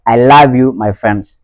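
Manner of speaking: LOVE as "lahv" in a Ghanaian accent. Shown as a demonstration. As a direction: open the vowel of love to "ah", Ghanaian style. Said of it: "du côté ghanéen".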